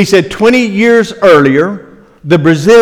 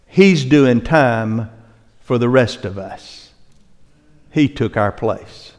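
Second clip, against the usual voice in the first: hushed reverent climax; 5 semitones lower, 6 dB quieter, slower than usual. Real, not acted. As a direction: drop to a soft, slow hush. Climax of the prison story.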